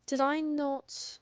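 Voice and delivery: lightly put-on British streamer voice; British accent, done for fun; fake British accent. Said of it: "I was British for fun".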